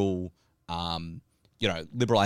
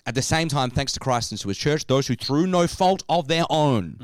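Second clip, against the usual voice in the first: formal reading. Shown as a demonstration. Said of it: "I just wanna read this part again".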